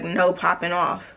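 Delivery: slow, understated stern warning; imitated seriousness. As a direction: lay down the rule slowly, imitating a serious man. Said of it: "he just got real serious".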